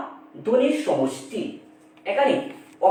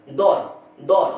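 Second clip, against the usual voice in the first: দর said alone as one beat; syllable split out; 4 semitones lower, much slower than usual. Shown as a demonstration. Teacher splitting সুন্দর into syllables, দর said alone. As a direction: isolate দর as a separate syllable. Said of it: "এটা হচ্ছে একটা অক্ষর".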